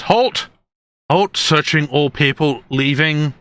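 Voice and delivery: high-pitched gate guard calling halt; guard's challenge. Acted. Game master as guard stops travellers, official challenge.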